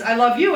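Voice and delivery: "you" picked out as the contrast word; stress on YOU. Shown as a demonstration. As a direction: lean on "you" at the end. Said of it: "as opposed to loving somebody else".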